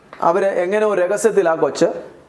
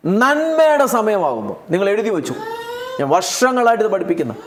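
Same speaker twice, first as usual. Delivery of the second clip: tearful. Real, not acted. Preacher moved to tears telling the church what he teaches, tearful. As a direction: voice catching with real tears.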